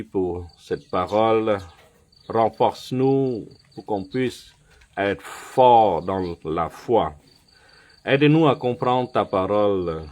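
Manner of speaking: earnest prayer spoken to God. Acted. Pastor closing the teaching with a prayer, devout. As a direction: pray it over the congregation, steady and devout.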